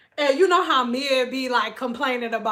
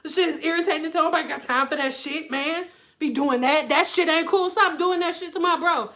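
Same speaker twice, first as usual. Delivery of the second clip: a mildly raised, irritated rant; irritated brother; 5 semitones higher, 3 dB louder than usual. Retold or imitated. Brother ranting at his sister about mess, mock irritated. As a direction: vent like an annoyed brother. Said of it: "he was like".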